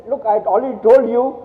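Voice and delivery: imitating an upset colleague. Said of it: "She said".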